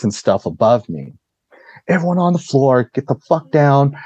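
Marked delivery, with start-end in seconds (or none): 1.9-3.9 higher-pitched mock yell; high, urgent retold command. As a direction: imitate someone yelling orders, without full volume. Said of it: "he's just yelling".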